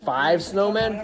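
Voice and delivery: slow amazed echo; surprised. Real, not acted. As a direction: stretch it out in amazement.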